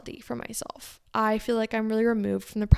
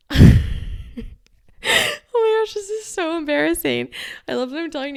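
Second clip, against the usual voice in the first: squealing, much higher laugh-talk; embarrassed laughing; 8 semitones higher, 7 dB louder than usual. Real, not acted. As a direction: giggle through the embarrassment. Embarrassed about confessing story.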